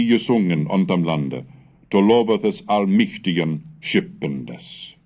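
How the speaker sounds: put-on measured, deliberate reading of an old text; Old English recitation. Scholar reading Bede's Gregorius story to students, measured recitation.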